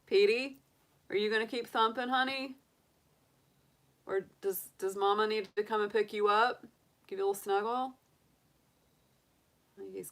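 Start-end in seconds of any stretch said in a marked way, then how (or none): 0.1-7.9 calling to a pet. Real, not acted. Calling to her thumping bunny.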